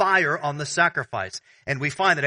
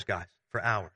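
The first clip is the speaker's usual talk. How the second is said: ordinary delivery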